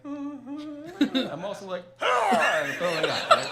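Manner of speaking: slow, high, laughing through words; can barely get it out for laughing. Real, not acted. Laughing while telling vomiting.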